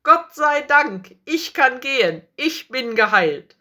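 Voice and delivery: high, loud cry of joy; jubilant. A narrator's reading. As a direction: rejoice out loud, starting at the peak. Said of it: "lachte und jubelte". (jubelnd vor Freude)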